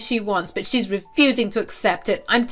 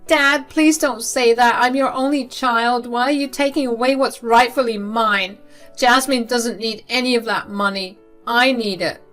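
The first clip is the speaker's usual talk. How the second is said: desperate begging; 5 semitones higher, 4 dB louder than usual. Acted. Daughter begging her father for the inheritance, high and desperate. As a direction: beg him not to take it away.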